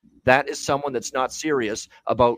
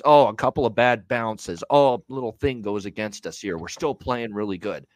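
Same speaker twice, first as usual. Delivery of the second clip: mocking excuses. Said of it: "I don't wanna hear this".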